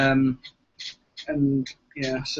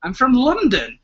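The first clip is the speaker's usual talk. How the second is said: put-on English accent; 9 semitones higher, 6 dB louder, slower than usual. Mocking the mock accent back.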